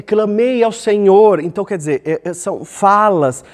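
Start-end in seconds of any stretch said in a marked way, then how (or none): 0.0-1.4 slow, high, forceful invocation; drawn-out, imploring call; crying out to God. Shown as a demonstration. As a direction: proclaim it with strong intonation. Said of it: "muito fortes".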